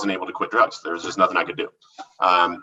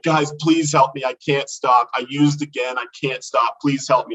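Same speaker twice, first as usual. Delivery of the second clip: higher-pitched, urgent pleading; imitating his own begging, mildly raised; retold tearful plea; 4 semitones higher than usual. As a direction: re-enact a desperate plea for help. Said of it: "And I'm crying".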